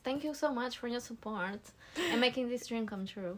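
bubbly influencer intro voice. Pretend. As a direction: gush like a YouTuber. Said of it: "with our influencer voice".

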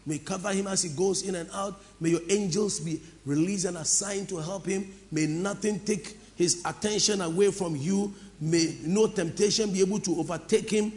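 low, measured prayer for others to repeat. Shown as a demonstration. Leading the congregation in prayer for their pastor, prayerful.

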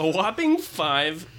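drawn-out mocking repeat; wry echo. Shown as a demonstration. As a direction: echo it with dry amusement. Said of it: "characters being revealed in the rolls".

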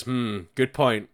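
hammed-up dim villager; mock pondering. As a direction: play a dim villager musing. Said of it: "the guy goes".

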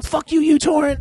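high, loud yell at the software; mock furious shout. Cursing uTorrent while smashing the computer, high loud shout. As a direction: scream it at the computer.

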